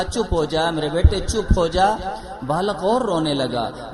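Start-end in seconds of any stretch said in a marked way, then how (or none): 0.0-1.9 a mother telling her son to hush, a bit louder; mother hushing loudly. Retold or imitated. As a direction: hush the wailing boy firmly and louder. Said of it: "बालक चुप से कहा". (बेटे को ज़ोर से चुप कराती माँ)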